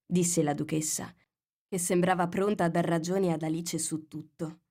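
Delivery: ordinary delivery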